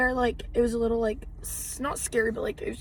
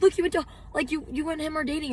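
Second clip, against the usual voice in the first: imitated insistent fans; 5 semitones higher than usual. Fans insisting with phone evidence.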